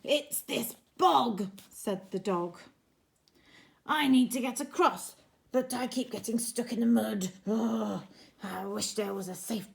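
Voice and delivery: a hint of a fed-up dog, a touch fast; glum dog. Dog stuck in mud complaining to George, a touch fast. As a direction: grumble it quickly like a stuck dog.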